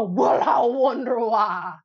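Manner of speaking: slow, dry sarcasm; sarcastic. Acted. Vlogger teasing viewers about their hair habits, sarcastic. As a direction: drag it out knowingly.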